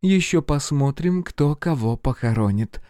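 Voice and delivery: icy, high female reply; cold retort. A narrator's reading. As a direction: throw the threat back coolly. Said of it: "холодно ответила".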